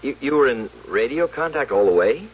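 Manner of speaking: can't believe what he's hearing; stunned question. Acted. Stunned by claim of radio contact.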